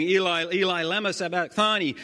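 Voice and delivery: high, loud anguished cry. Acted. Jesus crying out to God from the cross, high and loud. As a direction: call it out to the sky in anguish. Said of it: "cried out with a loud voice".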